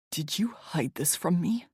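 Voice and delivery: hushed, accusing whisper; tense whisper. A narrator's reading. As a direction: breathe it out, cold and accusing. Weston's tense whispered question.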